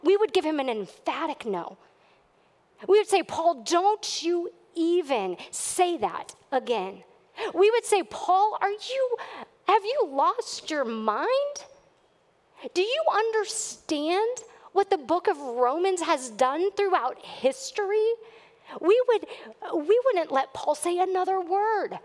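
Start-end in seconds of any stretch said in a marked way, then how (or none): 3.2-7.0 slow, firm rebuke to a friend; firm, slow scolding of Paul. Acted. 8.0-18.1 incredulous rebuke. Acted.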